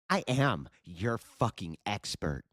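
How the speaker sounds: smug pretend authority; mock expert. Streamer mocking the debater's claimed expertise, slow. Mocking her self-importance.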